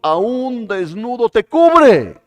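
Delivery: loud, high fervent preaching; preaching at full force. Real, not acted. Pastor exhorting the congregation, loud fervent preaching. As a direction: drive the point home to the congregation.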